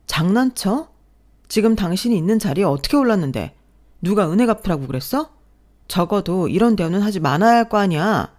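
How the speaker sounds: high, loud indignant yelling; angry outburst. Acted. Wife yelling back at her insulting husband, angry outburst. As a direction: lash out, refusing to back down.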